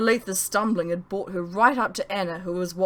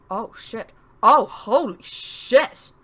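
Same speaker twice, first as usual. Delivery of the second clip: panic; 4 semitones higher, 6 dB louder, much slower than usual. Acted. Narrator panicking at knifepoint.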